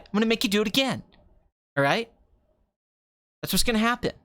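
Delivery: lightly voiced pushy film director; Quentin Tarantino. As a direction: order the actress about, punching the phrases. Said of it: "Tarantino can make anything funny".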